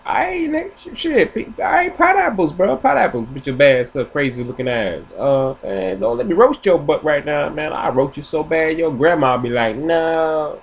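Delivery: very high squeaky roasting voice; squirrel roast. Retold or imitated. Squirrel roasting the dog, very high and squeaky. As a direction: squeak out the insults. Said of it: "And I was like".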